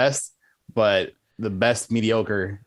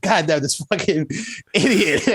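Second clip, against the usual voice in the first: Al Pacino; 6 semitones higher than usual. Retold or imitated. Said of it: "I felt Al Pacino was like".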